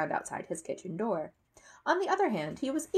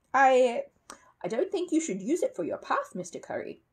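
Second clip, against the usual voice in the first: hesitant start, then higher anxious plea; hesitate, then object nervously in a higher voice; 6 semitones higher, 4 dB louder than usual. A narrator's reading. Paddington warning Mr Curry about the rubble, anxious. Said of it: "said Paddington anxiously".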